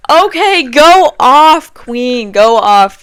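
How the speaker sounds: loud, high hype cheer. Real, not acted. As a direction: hype her up like a fan. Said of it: "cheering the coworker".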